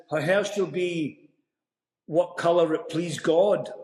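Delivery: measured, slow Shakespeare line in a Scottish accent; slow, restrained verse reading; reciting the scripted line. Shown as a demonstration. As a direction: recite it slowly and evenly, as written. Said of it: "and the line is".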